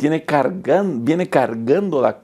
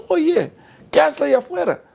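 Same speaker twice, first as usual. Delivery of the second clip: much higher, surprised call across the door. Retold or imitated. Director calls out to friend.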